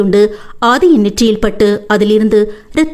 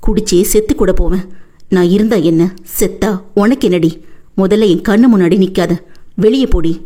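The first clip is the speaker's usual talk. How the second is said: put-on drunk angry husband; 2 semitones lower than usual. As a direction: spit it at her like a drunk husband. Drunk husband yells at wife.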